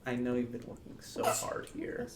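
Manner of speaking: a soft, coaxing plea spoken softly; gentle persuasion. Acted. Player sweet-talking the weeping barista, softly coaxing. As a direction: ease the words out gently, like soothing a frightened creature. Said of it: "softly, just, like, gently".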